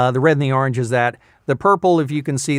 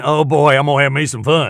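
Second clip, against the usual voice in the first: put-on Southern accent; 4 dB louder than usual. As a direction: relish it in a hammed-up Southern accent. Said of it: "Okay, is this in the South?".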